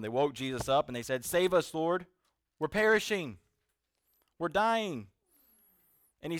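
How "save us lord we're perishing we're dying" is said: raised, louder cry for help; acted-out alarm, high and loud; freaking-out disciples. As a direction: plead urgently, as if in danger. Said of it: "The disciples are freaking out".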